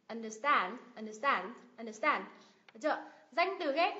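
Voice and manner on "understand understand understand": "understand" as under-STAND; teacher's model of "understand", weight on STAND; stress on second part. Shown as a demonstration. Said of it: "động từ ghép cũng nhấn tiết thứ hai".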